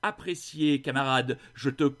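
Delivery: ordinary delivery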